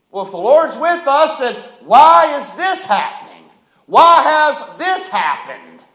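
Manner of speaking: anguished cry of why. Retold or imitated. Voicing Gideon's anguished why.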